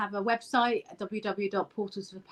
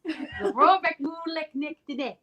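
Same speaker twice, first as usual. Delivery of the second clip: mock Scottish accent; 4 semitones higher than usual. Shown as a demonstration. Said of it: "I'll go on for you".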